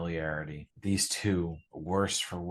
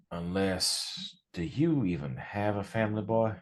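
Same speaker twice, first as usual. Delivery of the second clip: a hint of a rough gang elder, calmer; lightly voiced Dylan. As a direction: settle the scared kid down. Dylan calming the new kid.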